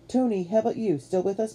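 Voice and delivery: high-pitched searching question; calling out. A narrator's reading. Matt checking on Tony in darkness, calling out. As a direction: check on a friend in the dark. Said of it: "Matt called".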